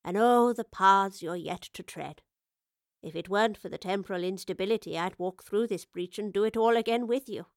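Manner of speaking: a hint of an old traveller looking back, unhurried; elderly professor. Old professor reminisces wistfully.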